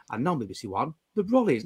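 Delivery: low, soft modern continuity announcer; down-here announcer. Shown as a demonstration. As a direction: drop the announcement down low and quiet. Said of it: "Whereas now we're down here".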